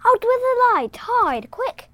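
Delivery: put-on high, loud boy's command; urgent cry. A narrator's reading. John taking command as danger nears, urgent high cry. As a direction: cry out orders in a child's voice. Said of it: "cried John, taking command".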